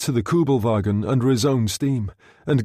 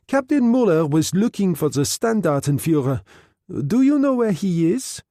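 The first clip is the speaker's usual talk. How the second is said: higher hostess voice, rising on the question; voiced Helen; 7 semitones higher than usual. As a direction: play Helen as the poised hostess.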